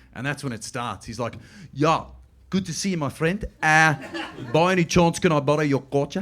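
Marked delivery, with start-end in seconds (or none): 1.8-6.3 put-on, spot-on South African accent. Retelling how Ryan starts a bit at the door, imitating Ryan's South African accent. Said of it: "he can do a really good South African accent".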